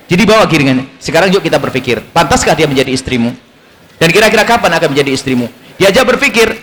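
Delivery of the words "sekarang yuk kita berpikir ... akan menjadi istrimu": low, coaxing questions; lightly acted tactful invitation to reflect; gentle, sweet approach. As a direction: gently lead a friend to think. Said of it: "Harus dengan cara yang manis".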